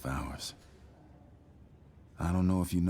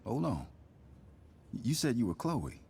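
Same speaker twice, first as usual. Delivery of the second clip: sudden recognition; 7 semitones higher than usual. Acted. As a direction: pitch jumps up, caught off guard. Father suddenly recognizes Chloe's name.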